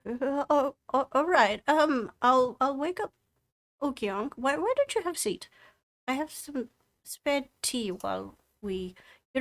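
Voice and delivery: high, hurried granny voice; flustered old woman. Acted. Old dwarf woman hurrying to wake her husband, high and flustered. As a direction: bustle about in a high old voice.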